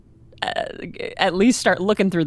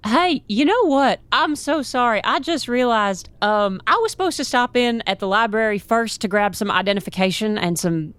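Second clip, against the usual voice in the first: deliberately annoying; 3 semitones higher than usual. Pretend. Lost rookie stalls the guards at the library, deliberately annoying. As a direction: pester them with rambling, needless questions. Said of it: "trying to be annoying as I can".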